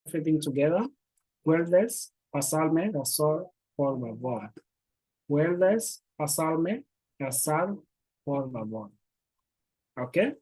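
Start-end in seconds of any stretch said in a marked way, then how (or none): 1.5-4.5 said as one slow unbroken phrase; careful teacher demo, words linked; slow connected model sentence. Shown as a demonstration. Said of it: "A little bit quickly, everything together". 5.3-8.9 said as one slow unbroken phrase; careful teacher demo, words linked; slow connected model sentence. Shown as a demonstration. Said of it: "A little bit quickly, everything together".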